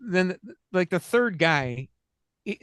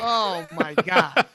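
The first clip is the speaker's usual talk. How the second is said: stunned; 2 semitones higher, 5 dB louder, much slower than usual. Retold or imitated. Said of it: "And I go".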